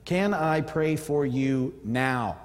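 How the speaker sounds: very slow, deliberate offer of prayer; slow demo. Shown as a demonstration. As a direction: lay out each of the six words slowly. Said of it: "work into your vocabulary".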